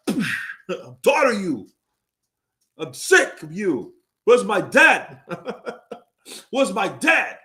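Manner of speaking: high, slow mock wail of a beaten fighter; fake-cry like the loser; mock whining.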